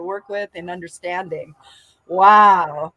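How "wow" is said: awed wow and woo. Real, not acted. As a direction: let the awe build to a cheer. Overwhelmed after emotional session.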